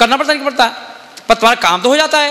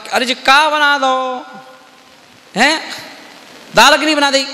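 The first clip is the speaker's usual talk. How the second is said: higher, indignant complaint about lentils only; grandfather complaining; 4 semitones higher than usual. Retold or imitated. Grandfather complains to mother about only lentils, surprised. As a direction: grumble in surprise at the meal. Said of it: "उनके बाबा ने".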